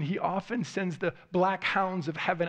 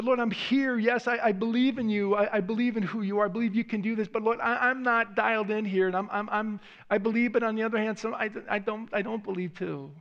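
earnest prayer; 2 semitones higher than usual. Pretend. Voiced prayer of doubting father.

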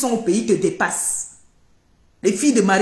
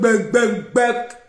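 mock bird pecking; much slower than usual. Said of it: "Antoine me fait".

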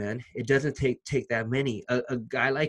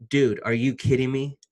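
genuinely stunned, punching Dude louder; real disbelief, said louder; 4 dB louder than usual. Real, not acted. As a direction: let the real disbelief burst out. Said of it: "And I'm saying that right now".

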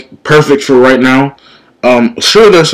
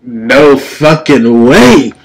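stunned disbelief; 2 semitones higher, much slower than usual. Real, not acted. Boss appears in the game.

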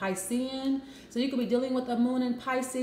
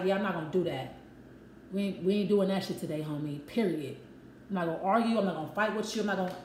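mock dismissive; 4 semitones lower than usual. Client quoted brushing off a fight.

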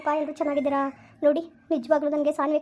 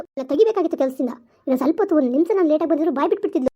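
worked-up and a little loud; fuming that the maid nearly talked; agitated; 4 dB louder, faster than usual. Acted. Wife venting to husband about the maid, worked-up. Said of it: "cool down, ಏನಕ್ಕೆ ಹಿಂಗ್ ಆಡ್ತಾ ಇದೀಯ ನೀನು?".

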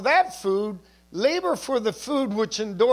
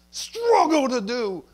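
mock straining; 3 semitones higher, 3 dB louder, slower than usual. Mimics straining over religious works.

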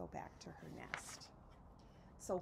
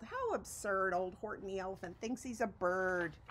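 yelled mockingly; 4 dB louder than usual. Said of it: "they yelled".

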